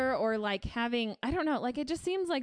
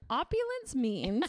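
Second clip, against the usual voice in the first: mock grand quote; slower than usual. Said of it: "they're like".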